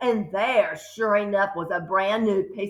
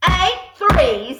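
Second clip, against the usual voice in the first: high, loud barked numbers; shouting; 6 semitones higher, 4 dB louder than usual. A narrator's reading. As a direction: bark it at him. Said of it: "the Trunchbull shouted".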